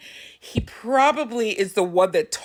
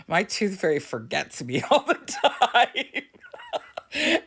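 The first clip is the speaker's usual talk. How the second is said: laughing through quote; 3 semitones higher than usual. Retold or imitated. Mom retelling her son's complaint, laughing through it. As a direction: laugh breaking into the words.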